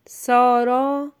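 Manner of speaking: slow, evenly read سارا; measured first reading. Shown as a demonstration. Teacher first reads the sentence to a pupil, slow and clear.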